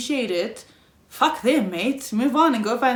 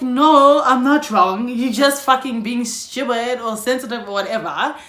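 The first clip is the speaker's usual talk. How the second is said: mock angry retort; 2 semitones higher, 5 dB louder than usual. Retells snapping back when not wrong.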